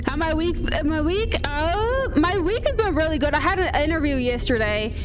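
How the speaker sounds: put-on Scottish lilt; Scottish accent. Shown as a demonstration. Streamer answering chat about the week, Scottish accent. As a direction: keep up the Scottish accent casually. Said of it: "I could probably do a Scottish accent".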